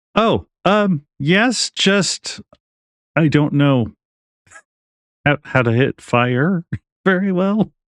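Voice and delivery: very high, very slow, nervous, uneasy, halting voice. Voicing Hilo, who is concerned about fire, answering another character: voicing Hilo, afraid of fire. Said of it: "So he's like".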